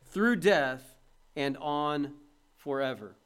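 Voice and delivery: slow, weighty reading of a quote; solemn slow quotation reading; quotation read aloud. Real, not acted. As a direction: read it slowly, with gravity. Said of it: "said this".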